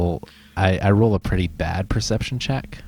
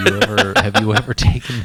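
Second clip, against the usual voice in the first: laughing, louder question; 2 semitones higher, 5 dB louder than usual. Real, not acted.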